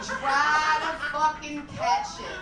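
slow, laughing yell of the punchline; laughing shout. Real, not acted. Telling the crowd the punchline, laughing slow yell. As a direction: howl it through laughter.

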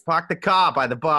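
Boston accent, R's dropped in car and bar; Massachusetts accent. Shown as a demonstration. Co-host asked how the accent goes, shows a Massachusetts accent. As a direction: demonstrate a Southie-style Massachusetts accent. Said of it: "How does a Massachusetts accent go?".

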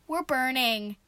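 loud cry of alarm; alarmed shout. A narrator's reading. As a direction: call out that there's fire. Shouted warning aboard burning boat.

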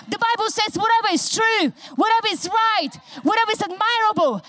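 preaching shout. Acted. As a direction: proclaim it to the rafters. Declaring scripture against the devil.

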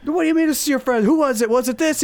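high-pitched mock interrogation; outraged girlfriend. Imitating the girlfriend questioning her boyfriend, hammed-up outrage. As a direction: grill him as an upset girlfriend. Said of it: "she's just like".

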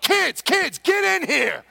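put-on high, loud call to the kids in the next room. Calling his kids over.

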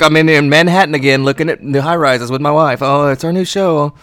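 put-on lightly accented Correa voice; mock Carlos Correa. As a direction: ham up a reality-show star. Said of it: "I'm doing my Carlos Correa".

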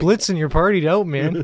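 Canadian drinking pal; put-on Canadian accent. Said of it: "very Canadian accent?".

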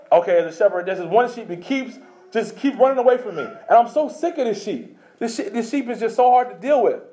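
rising to a mock angry yell; exasperated rant building to a shout; mock exasperated shepherd. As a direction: play a fed-up shepherd losing patience. Mock voice of an irritated God.

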